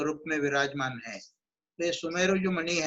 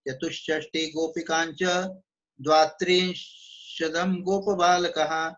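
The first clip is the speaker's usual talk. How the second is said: measured, half-chanted scriptural shloka; Sanskrit verse recitation; 2 semitones higher than usual. Shown as a demonstration. Teacher citing scripture on the mala beads, chanted recitation. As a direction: recite the verse with long, sustained syllables.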